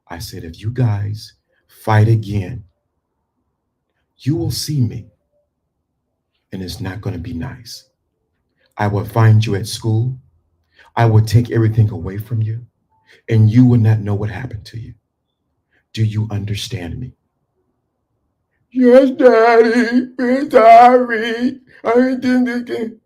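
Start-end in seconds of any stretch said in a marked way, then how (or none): 0.4-17.1 calm stern warning. Shown as a demonstration. Father warning fighting sons in a calm low voice. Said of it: "I talked just like this". 18.7-22.9 put-on high, loud, slow little-boy apology; scared child. Son apologizing to his father in a high child voice.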